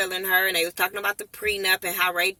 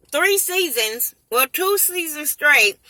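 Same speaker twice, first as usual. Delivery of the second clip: slow, incredulous emphasis; 6 semitones higher, slower than usual. Real, not acted. Ranting about the cast.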